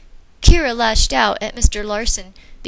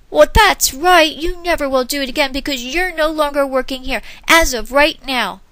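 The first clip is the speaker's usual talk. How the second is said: cold firing; 5 semitones higher, 4 dB louder than usual. Acted. Manager firing cashier, loud and cold. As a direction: fire her flatly and firmly.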